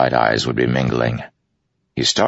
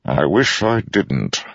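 grim; 6 semitones higher, slower than usual. Acted. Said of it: "expression grew grim".

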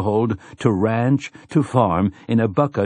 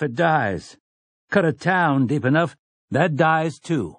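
earnest pleading speech; 7 semitones higher than usual. A narrator's reading. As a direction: plead with the town, slowing down. Tian's speech to the town.

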